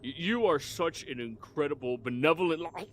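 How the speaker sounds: flattering, swooping voice to royalty; fawning underling. Acted. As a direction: gush with nervous deference. Underling keeps flattering the ruler.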